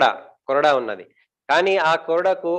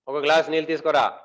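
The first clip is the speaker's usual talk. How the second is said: acted husband's demand, only mildly raised; half-hearted mock yell of a command; mock shouted order. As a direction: order it curtly without really shouting. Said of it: "అట్లా అరుస్తారా".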